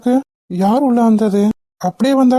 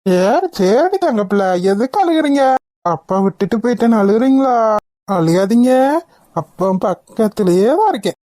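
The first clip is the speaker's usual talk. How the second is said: put-on soothing the baby. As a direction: hush the little one tenderly. Father soothing crying baby. (அழும் குழந்தையை மெதுவாக சமாதானப்படுத்தும் குரல்)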